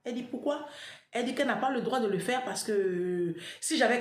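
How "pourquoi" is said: surprised why. Retold or imitated. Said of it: "elle a sursauté".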